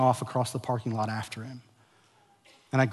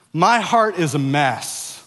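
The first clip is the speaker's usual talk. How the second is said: slow, louder call for the crowd to repeat; slow declaration; 3 semitones higher, 5 dB louder, slower than usual. Shown as a demonstration. Pastor leading his church in a slow unison declaration. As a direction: lead the congregation in saying it, slowly. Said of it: "Can we just say that together?".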